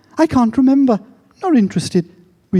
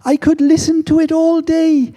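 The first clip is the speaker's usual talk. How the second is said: admiring fan; 8 semitones higher than usual. Retold or imitated. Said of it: "People say to me".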